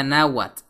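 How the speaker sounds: "náhuatl" said NA-wat, no H; silent H. Shown as a demonstration. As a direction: drop the H in "náhuatl", a plain w glide. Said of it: "donde la H es muda".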